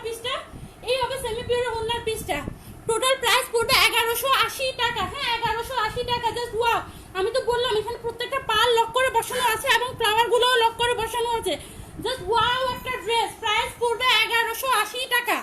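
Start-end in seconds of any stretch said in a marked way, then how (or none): 2.9-11.5 naturally loud sales pitch; big-voiced, emphatic selling. Real, not acted. Live seller pitching a dress to online viewers, loud. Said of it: "এত জোরে কি কেউ কথা বলে". 12.0-15.4 loud, emphatic sales pitch. Real, not acted. Live seller announcing a dress price to viewers, loud. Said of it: "এত জোরে কি কেউ কথা বলে".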